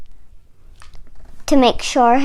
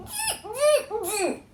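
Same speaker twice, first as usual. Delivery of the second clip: 1 monkey chatter; 8 semitones higher, 12 dB quieter than usual. Acted. Monkeys mock the peddler.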